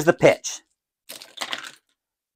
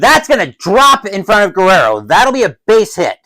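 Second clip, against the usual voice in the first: higher play-by-play lift; excited hit call; 5 semitones higher, 4 dB louder than usual. Pretend. Commentator calls a base hit, mildly excited. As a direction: punch up the call as the ball drops.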